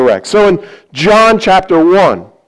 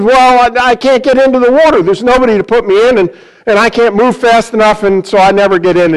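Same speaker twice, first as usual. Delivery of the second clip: higher and fast, tumbling out excuses; flustered sick man; 4 semitones higher, faster than usual. Acted. The sick man explaining to Jesus why he never gets in, higher and hurried. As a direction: rush the excuses like a man stuck for years.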